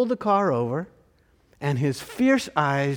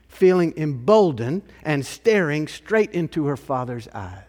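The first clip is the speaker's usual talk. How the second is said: usual speaking voice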